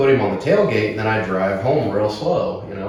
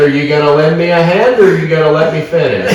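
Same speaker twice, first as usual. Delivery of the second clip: loud, raised-pitch retold challenge; pissed-off challenge; 6 semitones higher, 7 dB louder than usual. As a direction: re-enact telling off a cop. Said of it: "I'm pissed".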